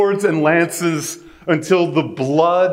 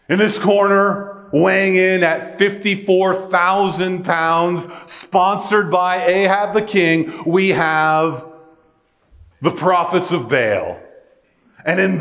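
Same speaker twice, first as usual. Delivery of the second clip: hyped ring announcer, pitched up; boxing announcer; 5 semitones higher than usual. Pretend. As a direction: announce the fighters like a title bout. Boxing match announcer parody.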